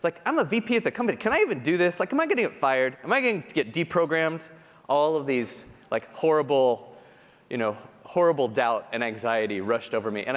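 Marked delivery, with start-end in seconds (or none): 0.0-4.5 anxious inner voice. Retold or imitated. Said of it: "It's like the anxiety".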